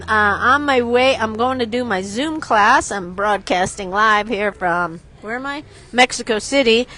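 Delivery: buzzing, loud and wired; too much caffeine. Real, not acted. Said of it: "The coffee has kicked in".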